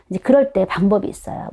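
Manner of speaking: normal talking voice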